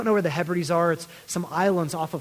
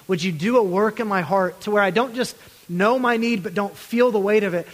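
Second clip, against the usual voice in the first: louder, urgent begging to God; pleading prayer; 3 semitones higher, 4 dB louder than usual. Acted. Pastor voicing the church's desperate prayer, louder and pleading.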